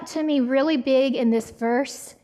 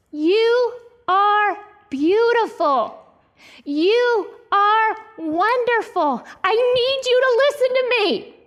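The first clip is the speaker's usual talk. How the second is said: slow, higher pleading to a struggling daughter; passionate pleading; 5 semitones higher than usual. Retold or imitated. Mother pleading with her struggling daughter, passionate and slow. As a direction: plead with her as if her life depends on it. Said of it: "in this desperation, you know, just this passionate way".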